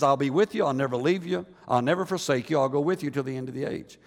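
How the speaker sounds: gentle, reassuring divine voice; God's promise. Retold or imitated. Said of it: "God has says".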